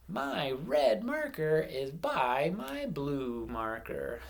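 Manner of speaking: slow, clear model sentence; teacher modelling a sentence for counting words. Shown as a demonstration. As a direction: say every word slowly so kids can count. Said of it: "I'm going to say".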